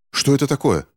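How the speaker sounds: high alarmed exclamation; exclaiming. A narrator's reading. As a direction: cry out at the strange noise. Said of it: "воскликнул Финч".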